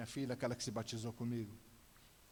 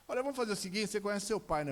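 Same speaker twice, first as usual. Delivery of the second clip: raised, high-pitched ultimatum; threatening father; 6 semitones higher, 4 dB louder, faster than usual. Retold or imitated. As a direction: warn her with a raised voice. Father threatens crying daughter.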